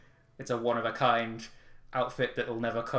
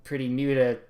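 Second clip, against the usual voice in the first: loud put-on shopkeeper voice; Cutemon's accent; 3 semitones higher, 6 dB louder than usual. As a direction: bluster through it like a slick dealer. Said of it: "I can't do his accent anymore".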